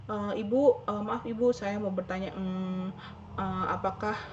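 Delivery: hesitant student stumbling through a question, stretched slow pauses; halting, uncertain, full of ehs; nervous rambling question. Retold or imitated. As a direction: act out a jittery student who can't get to the point. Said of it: "misalnya gini".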